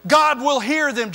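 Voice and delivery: swelling from plain to a loud, high climax on finally; rising pulpit fervour; building preaching. Acted. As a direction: drive it up like a revival preacher. Preacher builds on repeated pagan prayers.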